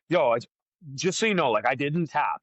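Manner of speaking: a hint of a Brazilian accent, retold; light Brazilian accent. Retold Brazilian opponent insisting he didn't tap, light Brazilian accent. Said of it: "in his Brazilian accent".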